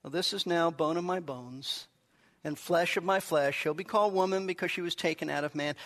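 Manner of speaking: mock-calm, low and understated recitation. Preacher imagining an unexcited Adam speaking, very calmly. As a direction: read it off unmoved, low, as if nothing happened. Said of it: "imagine Adam very calmly saying".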